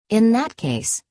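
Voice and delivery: a manager snapping into action; commanding. Acted. Manager takes charge, snapping fingers.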